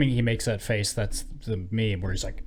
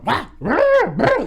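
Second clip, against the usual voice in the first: high, loud mock animal wailing; 9 dB louder than usual. Men chasing a woman, wailing like animals. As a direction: wail like a pack of animals. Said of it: "like they're like animals".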